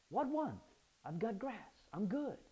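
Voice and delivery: high, light, don't-worry tone; breezy as a full sheep; carefree shrug. Shown as a demonstration. Preacher voicing a satisfied sheep, carefree. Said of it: "It sounds more like".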